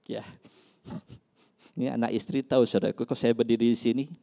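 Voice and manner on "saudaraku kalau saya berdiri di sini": usual speaking voice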